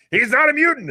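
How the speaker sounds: high mock yell of protest; retold screaming. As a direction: shout it up high like an outraged fan in the theater. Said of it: "And I'm just screaming".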